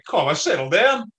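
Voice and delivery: mock pub reprimand, voice lifted; telling someone off. Pub drinker to a rowdy mate, telling him off.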